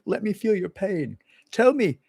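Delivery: high, slow, syrupy empathy voice; mocking gushing sympathy, slowly; Bill Clinton. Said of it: "I'm not Bill Clinton".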